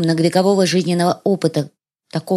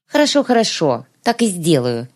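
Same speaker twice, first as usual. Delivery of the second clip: sarcastic. Acted. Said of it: "язвила тёмная".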